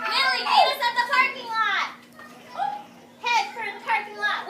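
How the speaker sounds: high, loud yell; bully yelling to his gang to chase the dog. A narrator's reading. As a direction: bellow after the dog. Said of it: "one of the big boys yelled".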